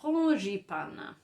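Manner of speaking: frangipane drawn out slowly in French; French pronunciation. Shown as a demonstration. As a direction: say frangipane slowly as frawn-zhee-pan. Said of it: "we say it as".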